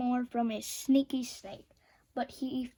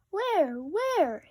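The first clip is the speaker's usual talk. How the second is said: yelled; 6 semitones higher, 4 dB louder than usual. A narrator's reading. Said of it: "yelled Plank".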